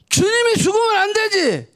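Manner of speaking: normal talking voice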